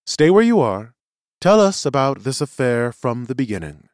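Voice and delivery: a touch of courtroom authority; presiding seer. Acted. Seer instructs the witness, commanding.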